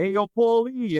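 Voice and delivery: hearty greeting. Retold or imitated. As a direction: call out to an old buddy. Greeting a patient on walking in.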